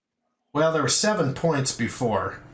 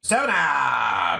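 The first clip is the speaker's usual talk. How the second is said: calling out; much slower than usual. Real, not acted. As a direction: call it out to the table. Dealer calls the roll.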